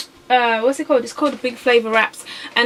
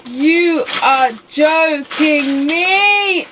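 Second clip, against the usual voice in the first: outraged disbelief; 5 semitones higher, 5 dB louder, much slower than usual. Real, not acted. Wrong sauce discovered.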